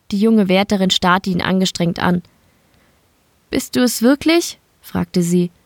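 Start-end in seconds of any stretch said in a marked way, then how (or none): 3.5-4.6 a lightly voiced young woman, higher; Elina's higher voice. A narrator's reading. Battered Elina asks Mike, lightly higher woman's voice.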